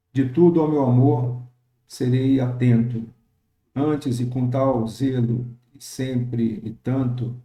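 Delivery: slow, syllable-marked reading of a sonnet stanza; unhurried scansion reading; slow poem reading. Acted. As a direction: read the verse slowly to show its meter. Reads sonnet stanza to scan it.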